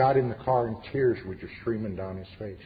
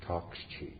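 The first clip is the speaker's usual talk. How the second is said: "Talk's cheap." whispered, much softer; whispered echo; 4 semitones lower, 11 dB quieter than usual. Shown as a demonstration. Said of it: "repeated line, whispered echo".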